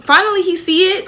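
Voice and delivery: high-pitched relieved cheer from friends; happy friends. Acted. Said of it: "happy. They're like".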